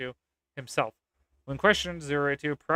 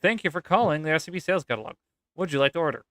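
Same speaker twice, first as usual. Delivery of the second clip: brisk, lightly British operator; British young lady; faster than usual. Acted. British operator answers another call, brisk put-on accent. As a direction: rattle the greeting off with a slight British accent. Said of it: "young lady with a British accent".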